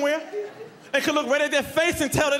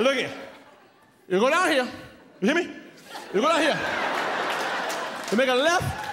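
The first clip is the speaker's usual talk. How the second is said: put-on old man. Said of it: "Old man turned around, he said".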